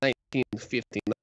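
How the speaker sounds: mock-Russian storyteller accent; put-on Russian accent. Podcaster telling co-host about the skiers, put-on Russian accent. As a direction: tell it in a comic Russian accent. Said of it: "Should I do the Russian accent".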